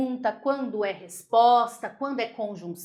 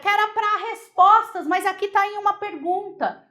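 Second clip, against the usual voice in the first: lightly voiced student objection, pitched up; student asking; 7 semitones higher, 3 dB louder than usual. Teacher voicing a student who questions her rule, pitched up. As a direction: play the puzzled student raising a doubt.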